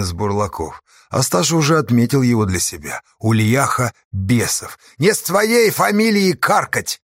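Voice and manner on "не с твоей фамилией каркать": higher, slow and cutting; sharp cutting retort. A narrator's reading. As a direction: cut him off hard. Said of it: "отрезал Асташа". (резкая отповедь)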